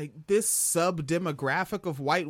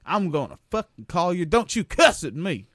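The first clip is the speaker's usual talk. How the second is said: mock entitled customer, a bit louder; mock Karen; 5 dB louder than usual. To the pizza worker, a mock Karen outburst. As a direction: echo her outrage as a hammed-up Karen. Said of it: "Karen energy".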